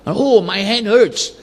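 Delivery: a light pained "oh", slow; a mild mock wince on "Oh, my hand hurts."; pained inner thought. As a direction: voice the sudden thought of hurt, unhurried.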